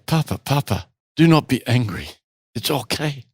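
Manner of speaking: gently imitated German-accented English; bad German accent. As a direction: voice the son's reassurance in a German accent. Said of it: "in my worst German accent".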